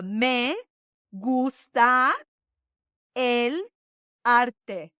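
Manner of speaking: "me gusta el arte" with long, open, stressed vowels; vowel emphasis. Shown as a demonstration. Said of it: "we really put emphasis on the vowels".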